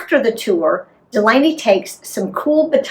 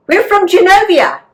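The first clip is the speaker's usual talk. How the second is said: lightly voiced girl; 10 semitones higher, 5 dB louder than usual. A narrator's reading. Narrator voicing kid character.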